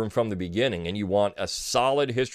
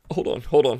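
mock choked-up; 3 semitones higher than usual. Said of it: "I choked up there".

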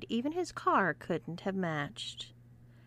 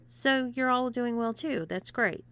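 mock sincerity; 4 semitones higher than usual. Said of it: "with a mock sincerity".

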